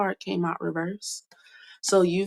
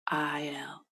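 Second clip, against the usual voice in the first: whispering; 2 semitones lower, 7 dB quieter than usual. Real, not acted. Whispering letters of the name.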